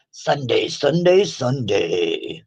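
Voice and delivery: booming announcer, rising then dropping; monster truck ad. Shown as a demonstration. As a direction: hype it like a monster truck rally ad. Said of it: "Trying to sound like the monster truck guys".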